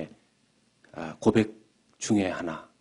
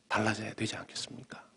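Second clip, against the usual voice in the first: whisper; 9 dB quieter than usual. Real, not acted. Whispered appeal in sermon.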